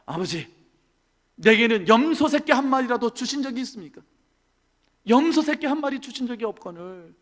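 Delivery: lightly voiced resentful elder son; a mild grumbling protest to the father; elder son sulking at his father; sulky complaint. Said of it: "볼멘 소리로 이야기합니다".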